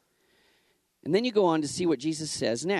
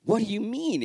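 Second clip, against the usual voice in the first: baffled Nicodemus; 8 semitones higher, 3 dB louder than usual. Acted.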